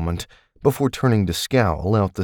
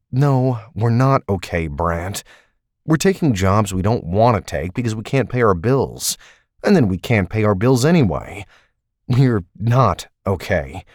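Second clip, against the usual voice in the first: heated argument; 3 semitones higher, 3 dB louder than usual. Acted. Taylor argues about their bills.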